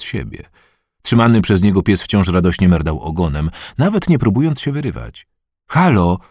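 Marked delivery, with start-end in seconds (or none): 5.7-6.2 shout. Acted. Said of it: "krzyknęła matka Patryka".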